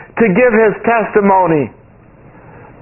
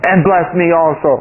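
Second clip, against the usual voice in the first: Pharaoh's request; 5 semitones lower than usual. Retold or imitated. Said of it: "what's this other little statement here".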